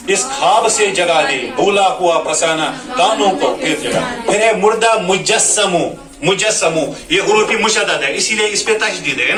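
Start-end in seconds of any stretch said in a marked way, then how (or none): 0.1-6.8 sing-song tarannum recitation of the verse; melodic poem recital. Shown as a demonstration. Teacher recites the nazm to show pronunciation in tarannum. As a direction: chant the lines like a mushaira reading.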